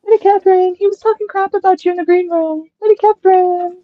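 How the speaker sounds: high-pitched mock Aussie tattletale; Australian accent. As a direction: imitate an Aussie gossip in a high voice. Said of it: "Did you like my Australian accent".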